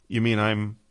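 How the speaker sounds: words bubbling with a giggle; half laughing through it; giggling. A narrator's reading. Old man giggling at the news of years passed. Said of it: "the old man was giggling too".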